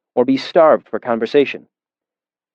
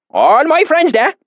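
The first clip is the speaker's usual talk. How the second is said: put-on deep valley accent; 4 dB louder, slower than usual. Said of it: "his accent so thick and oily".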